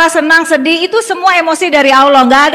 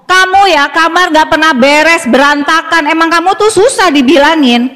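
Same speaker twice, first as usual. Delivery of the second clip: slightly raised nagging reproach; blaming nag; 2 semitones higher than usual. Shown as a demonstration. Mother nagging child about the messy room. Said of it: "alih-alih kita ngomong".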